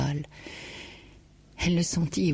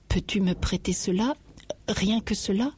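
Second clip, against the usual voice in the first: hésitante, angoissée; 5 semitones higher than usual. Acted. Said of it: "hésitante, pleine d'angoisse".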